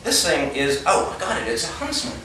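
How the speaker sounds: high, breathy, frightened protest; acted panic. Geologist warning colleague of a huntsman, panicky. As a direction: play the scared newcomer, voice pitched high.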